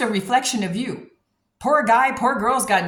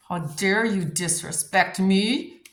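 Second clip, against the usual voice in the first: indignant retort; much slower than usual. Retold or imitated. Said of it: "you're like".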